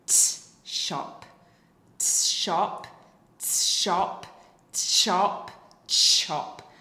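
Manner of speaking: loud breathy "t, shop" sequence that ends in "chop"; modelled approximation drill. Shown as a demonstration. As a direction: run "t, shop" together until "chop". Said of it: "So I'll model that again for you".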